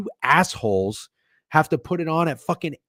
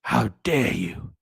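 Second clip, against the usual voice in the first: Greta Thunberg; 2 semitones lower, 4 dB quieter, slower than usual. Retold or imitated. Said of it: "What did Greta fucking Thunberg say?".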